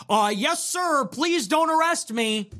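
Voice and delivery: high, meek mock plea to a handler; hammed-up frightened underling; mock submissive pleading. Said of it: "my handler from the Biden government is checking in".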